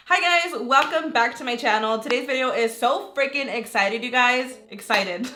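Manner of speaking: hyped intro, stretching so freaking excited; gushing YouTuber welcome; over-the-top excitement. Real, not acted. Vlogger hyping her viewers, over-the-top excited. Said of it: "I'm sorry, I'm cringing".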